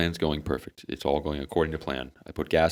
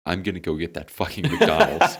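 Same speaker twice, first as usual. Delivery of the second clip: laughing decision; 4 dB louder than usual. Retold or imitated. Giving in to the craving.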